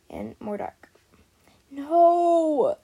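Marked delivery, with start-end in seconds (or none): 1.7-2.8 sharp high yelped no; a loud frightened yelp. A narrator's reading. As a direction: yelp it out, startled. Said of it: "yelped Hope".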